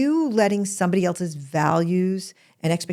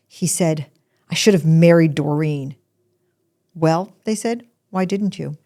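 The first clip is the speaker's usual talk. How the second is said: poem reading. Acted. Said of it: "it goes like this".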